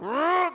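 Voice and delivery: loud, high growling roar; mock angry roar. Preacher mimics churchgoers hearing a name, loud mock roar. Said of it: "some of you are like".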